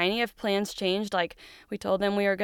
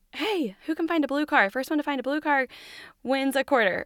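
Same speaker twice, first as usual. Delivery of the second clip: cheerful game voice; 6 semitones higher than usual. Pretend. Cheerful distraction game for kids.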